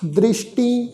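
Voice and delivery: slow recitation with long held final syllables; measured level-toned sacred reading; scripture recitation. Acted. Teacher recites Gurbani to the congregation, slow scripture recitation.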